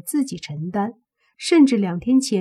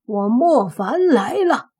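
loud, high-pitched bellow at the enemy's gate; commanding shout; loud shouted challenge; 5 semitones higher, 6 dB louder than usual. A narrator's reading. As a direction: call the foe out in a big raised voice. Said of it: "直接大喝".

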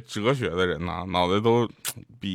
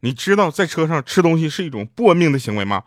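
louder, higher mock scolding; indignant driver; 6 semitones higher, 7 dB louder than usual. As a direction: play an angry cabbie telling off a passenger. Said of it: "司机师傅气愤地说".

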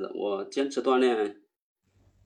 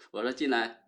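after a workout. Real, not acted. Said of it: "我刚跑完步".

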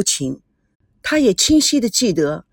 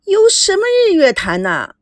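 high, loud mocking question; a girl mocking her brother's plan, high and loud; teasing scoff; 10 semitones higher, 4 dB louder than usual. A narrator's reading.

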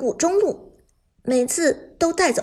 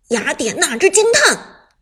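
shouted battle cry; loud shout; 3 semitones higher, 6 dB louder than usual. Acted. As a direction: yell the skill name. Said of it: "表弟一声大喊".

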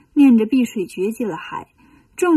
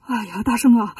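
frightened. Acted. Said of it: "吓坏了".

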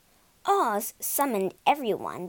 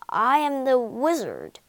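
croaked; 4 semitones higher, 3 dB louder than usual. Acted. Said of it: "croaked the man".

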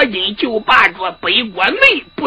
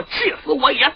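angry roar; 4 semitones higher, 4 dB quieter than usual. Acted. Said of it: "哇哇怪叫".

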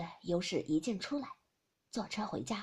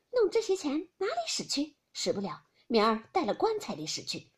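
sly favour; 3 semitones higher, 3 dB louder than usual. Acted. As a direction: slip her the money with a wink in the voice. Youshi, Pinger exchange.

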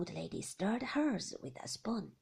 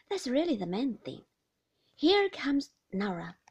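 breezy carer making small talk; cheery nurse; 3 semitones higher, 4 dB louder than usual. Acted. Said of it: "said the nurse".

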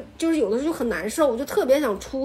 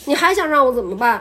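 annoyed retort; 2 semitones higher, 5 dB louder than usual. Retold or imitated. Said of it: "我说".

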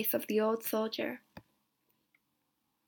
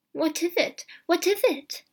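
higher, urgent repeated question; excited cry; 7 semitones higher, 4 dB louder than usual. A narrator's reading. Wife demanding to know what he holds, urgent cry. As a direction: cry out, pressing for an answer. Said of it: "Missus White cried".

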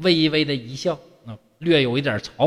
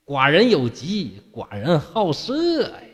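laughing quote; slower than usual. Retold or imitated. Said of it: "这吴生就笑着说".

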